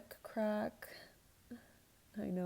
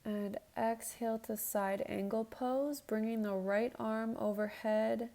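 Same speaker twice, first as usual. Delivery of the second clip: yoga instructor cueing. Acted. Leads a yoga flow.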